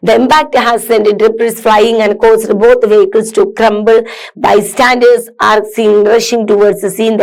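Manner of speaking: slow, careful read-aloud for students; measured classroom reading. Acted. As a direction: read each word out slowly and clearly. Reads accident description.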